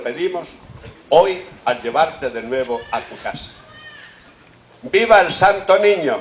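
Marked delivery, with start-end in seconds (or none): 4.8-6.2 loud high shout to the crowd; rally the crowd with a cry; festive cheer. Real, not acted.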